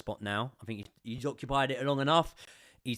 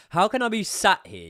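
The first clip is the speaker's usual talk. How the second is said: exasperated; 9 semitones higher, 7 dB louder than usual. Real, not acted. Venting at the ref.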